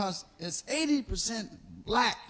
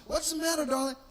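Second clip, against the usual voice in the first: higher tense attempt at sweetness; forced higher darling; strained sweet voice; 7 semitones higher, faster than usual. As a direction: try to sound sweet while seething. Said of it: "I be trying to say".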